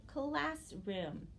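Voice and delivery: teacher repeating "Classroom" as class plus room; syllable blending demo. Shown as a demonstration. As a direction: say "Classroom" in two drawn-out syllables. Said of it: "a new word that says".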